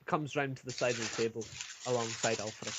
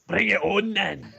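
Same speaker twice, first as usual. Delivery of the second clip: higher, louder, slow and laughing; laughing challenge; 9 semitones higher, 8 dB louder, slower than usual. Acted. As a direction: laugh through the dare. Ulfric accepts the challenge, laughing.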